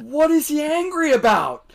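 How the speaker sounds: high-pitched imitation of an indignant wife, half laughing; retold indignant question. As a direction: play her bewildered outrage, high and amused. Retold wife misunderstands and is upset.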